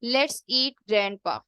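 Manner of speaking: "Let's eat grandpa" as one phrase, grandpa is the food; no pause before grandpa. Shown as a demonstration. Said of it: "अब ये देखें दोनों में कितना difference है".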